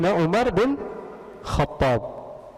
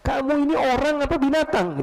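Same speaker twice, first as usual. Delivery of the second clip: angry shout; 10 semitones higher than usual. Retold or imitated. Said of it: "Teriak dia".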